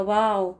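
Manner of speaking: वाओ like an excited wow. Shown as a demonstration. Teacher demonstrates excited wow for the sound. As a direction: exclaim वाओ as in English. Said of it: "जो हम excitement में बोल देते हैं".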